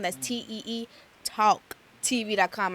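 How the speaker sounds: "Talk" with a Long Island "tawk" vowel; Long Island accent. Shown as a demonstration. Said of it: "I say talk in this Long Island accent".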